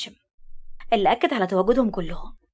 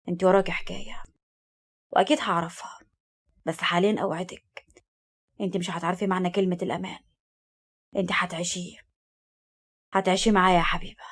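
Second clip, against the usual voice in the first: soft, low intimate voice; tender promise; 3 semitones lower, 4 dB quieter than usual. Acted. Man promising Habiba she will live safely, tenderly. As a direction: promise her safety softly.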